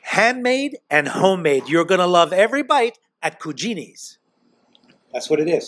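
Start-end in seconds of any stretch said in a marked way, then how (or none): 0.0-4.2 ad tagline. Acted. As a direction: land the slogan, stretched out. Host closes restaurant plug.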